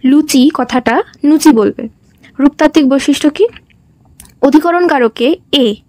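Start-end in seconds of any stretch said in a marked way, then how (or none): 1.2-1.5 নুচি with an n sound instead of l. Shown as a demonstration. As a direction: say নুচি, not লুচি, starting with n. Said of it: "লকে কোথাও কোথাও ন বলা হয়".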